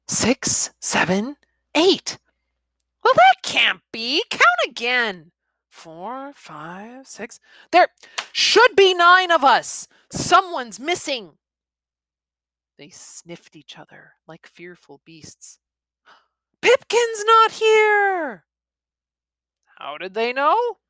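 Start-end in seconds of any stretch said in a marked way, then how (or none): 3.0-5.3 high, louder disbelief; puzzled boy. Acted. Boy doubts the count. 5.7-7.4 much softer, almost under breath; hushed counting. Acted. Hushed recount. 7.7-11.4 put-on high, loud worried kid; alarmed boy. 16.6-18.4 high, loud, slow cry of dismay. Acted. Realising friend absent.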